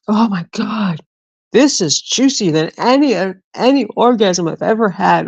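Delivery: overdone retold delight; imitating mom raving. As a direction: gush like mom savoring fruit. Mom raving over juicy nectarine.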